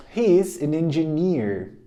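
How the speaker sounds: slow, evenly paced repetition; slow drill. Shown as a demonstration. Teacher repeats the line slowly at normal pitch. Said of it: "Repeat after me".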